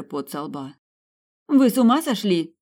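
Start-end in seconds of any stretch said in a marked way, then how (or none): 1.5-2.5 high, loud horrified yell; alarmed shout. A narrator's reading. Tina yelling at Janus for removing his helmet, alarmed. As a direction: scream it at him in alarm. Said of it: "закричала Тина".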